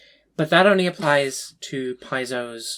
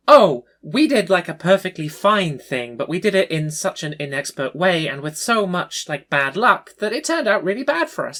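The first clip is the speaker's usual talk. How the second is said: hammed-up mock apology; mocking whiny voice; 4 semitones higher, 5 dB louder than usual. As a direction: whine it like a self-pitying player. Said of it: "this weird implication".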